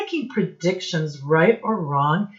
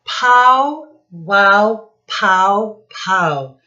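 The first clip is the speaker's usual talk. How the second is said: loud, higher bursts of sound words; louder comic-book sound effects read aloud; punchy sound words; 4 semitones higher, 8 dB louder, slower than usual. Shown as a demonstration. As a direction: pop each word out for the class. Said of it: "boys and girls".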